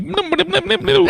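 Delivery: high humming guitar riff, laughing. Retold or imitated. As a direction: hum the riff through laughter. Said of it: "he starts going like".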